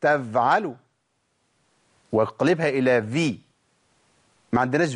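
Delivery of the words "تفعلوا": تفعلوا with a voiced v sound; f turned into v. Shown as a demonstration. Teacher showing the f wrongly voiced. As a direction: say تفعلوا as tevʕalu. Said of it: "ولا أقول".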